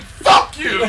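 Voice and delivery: high, loud retort; mock stage shout; imitated angry yell. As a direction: mimic a bandmate yelling at a heckler. Imitates bandmate cursing the heckler.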